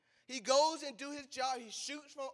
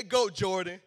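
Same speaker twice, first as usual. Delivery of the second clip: cheering; 4 semitones lower, 6 dB louder than usual. Shown as a demonstration.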